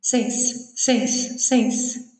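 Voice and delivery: "Sense" cut down to one short syllable, repeated; swallowed "com licença". Retold or imitated. Foreign student imitating what she hears on the metro, clipped "Sense". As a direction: mumble only the tail of "com licença" as "Sense". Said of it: "eu fico ouvindo uma coisa no metrô".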